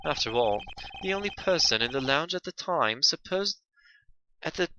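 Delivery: soft, reflective character voice; thoughtful game defendant. Acted. Accused weighing the witness's conclusion, soft character voice. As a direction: reason softly as the accused.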